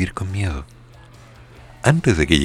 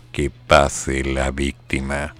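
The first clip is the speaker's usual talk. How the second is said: slow, low, lightly voiced ghostly voice; a hint of a voice from the tomb, drawn out; voice from beyond the grave; 3 semitones lower, much slower than usual. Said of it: "escuché una voz de ultratumba".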